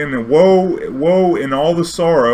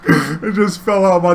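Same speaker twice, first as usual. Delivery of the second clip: laughing through words; 7 semitones higher, 5 dB louder, slower than usual. Real, not acted. Still laughing while retelling.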